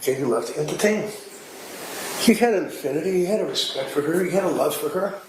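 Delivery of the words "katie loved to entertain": quick, earnest and sincere. Retold or imitated. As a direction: say it fondly, with real respect. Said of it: "He said just like".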